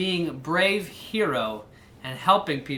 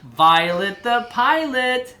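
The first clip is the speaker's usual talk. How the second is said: slow, emphatic title; title read slowly; 6 semitones higher, 6 dB louder, slower than usual. Shown as a demonstration. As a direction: savor the book's name. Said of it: "announcing the title".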